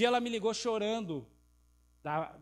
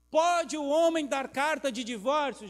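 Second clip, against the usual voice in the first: challenging question; 6 semitones higher, 7 dB louder, slower than usual. Acted. Pharisees challenging Jesus.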